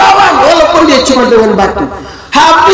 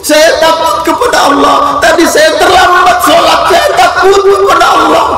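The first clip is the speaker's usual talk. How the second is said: put-on tearful child; 5 semitones higher than usual. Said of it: "Dia bilang".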